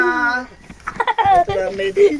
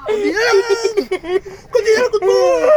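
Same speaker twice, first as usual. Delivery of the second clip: urgent coaxing; 5 semitones higher, 5 dB louder than usual. Real, not acted. Coaxing dog through treatment.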